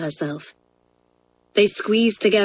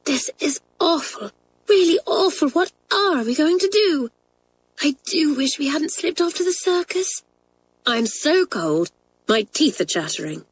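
put-on much higher, tearful wailing girl; near tears; 9 semitones higher than usual. A narrator's reading. Kathleen lamenting the circus trip in the cold, tearful. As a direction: whimper it out, cold and scared.

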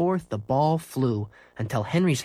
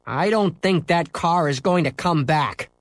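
put-on sulky boy; 5 semitones higher, 3 dB louder than usual. Scooter sulking.

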